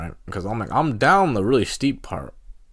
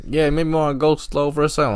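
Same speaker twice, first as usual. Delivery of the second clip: lightly voiced wary buddy, pitched up; cautioning friend; 7 semitones higher, 3 dB louder than usual. Friends advising a skier before the hill, lightly imitated caution.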